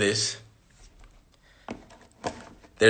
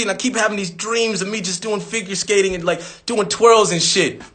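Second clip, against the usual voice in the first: higher-pitched, pleading dreamer who keeps saying man; whiny wannabe skater; 4 semitones higher than usual. Pretend. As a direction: act out a nervous beginner begging for reassurance. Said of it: "I'm gonna put myself in those shoes".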